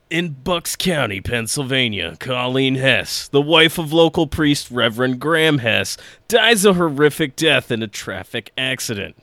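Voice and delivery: lightly voiced movie trailer read; dramatic announcer narration, understated. Shown as a demonstration. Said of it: "I will try to do it in my best trailer voice".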